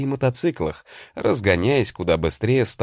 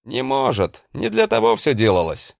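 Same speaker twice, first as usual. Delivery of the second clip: slightly quieter shout; 4 semitones higher than usual. Acted. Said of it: "Несколько тише проорал я".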